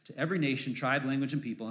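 solemn reading of Revelation; scripture reading. Acted. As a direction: read the vision with awe. Reads scripture aloud.

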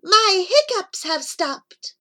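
high-pitched talking toy cheering; hiccuping baby doll. A narrator's reading. Doll announces its hiccups are over, high toy voice. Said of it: "and then went".

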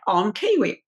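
imitated New Zealand accent; Kiwi accent. Castmate showing he can pop out of accent, Kiwi accent. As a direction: put on a quick Kiwi accent. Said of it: "you know, he's Kiwi".

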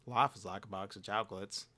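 a faint hint of Forrest Gump; Forrest Gump impression. Quoting the movie to his mom at the beach, a light Forrest Gump voice. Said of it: "doing my Forrest Gump impression".

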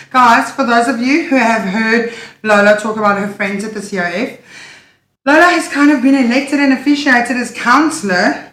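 breathless, gasping between phrases; talking while still out of breath from running. Real, not acted. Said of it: "Why are you so out of breath?".

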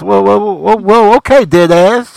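put-on New York accent. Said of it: "fake New York accent".

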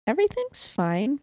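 flat, mechanical everything's fine; robot voice. Shown as a demonstration. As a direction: say it like a robot would. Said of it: "like a robot said it".

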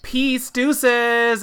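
high, loud, drawn-out call; gleeful mock shout. Imitating the bride driving off in the Lambo, gleeful mock shout.

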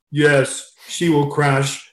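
imitated Russian coach, slow and deadpan; slow punchline in a light Russian accent. Russian coach predicting his swimmer's failure, mock Russian accent. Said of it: "I'll try to put my Russian accent".

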